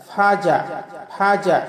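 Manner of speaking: ফাজা split as ফা জা; correct syllables. Shown as a demonstration. Teacher showing the correct ফাজা. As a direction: say ফা then জা. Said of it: "জিম জবর জা".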